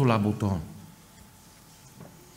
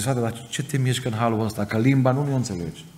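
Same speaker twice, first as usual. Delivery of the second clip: raised, higher pleading question; questioning pastor; 3 semitones higher than usual. Retold or imitated. Romanian pastor asks the weeping Italian brother why, raised voice. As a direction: press him, puzzled and urgent. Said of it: "și-a zis".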